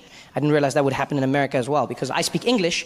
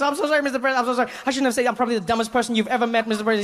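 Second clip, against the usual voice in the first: flustered apology; 6 semitones higher, faster than usual. Retold or imitated. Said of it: "I was like".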